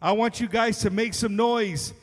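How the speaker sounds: booming ring announcer intro; lucha libre announcer. Acted. Introduces the band to crowd.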